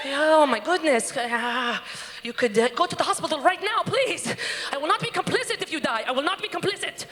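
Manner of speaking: hammed-up fretful father, pitch climbing; panicking dad. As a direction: plead like an overwrought dad. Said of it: "My dad is pacing back and forth".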